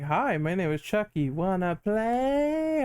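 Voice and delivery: slow, sweet creepy doll voice; too calm creepy doll. Retold or imitated. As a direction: drawl the last words like a doll. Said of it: "He was like".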